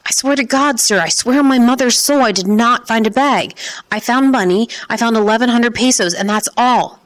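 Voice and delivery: high, frantic pleading; desperate pleading. Acted. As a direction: swear it desperately to save yourself. Pleading boy under interrogation.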